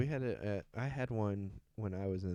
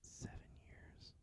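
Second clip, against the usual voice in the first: slow, hushed disbelief; barely voiced, stunned murmur; stunned whisper; 21 dB quieter, slower than usual. Real, not acted. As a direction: whisper it slowly, taken aback. Stunned at how long it's been.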